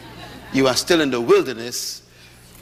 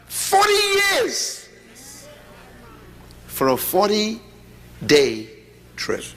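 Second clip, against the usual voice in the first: slow, much higher, stretched words; drawn out; 5 semitones higher, much slower than usual. Real, not acted. Preacher stressing the absurd timeline, slow and high. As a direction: drag out each word for effect.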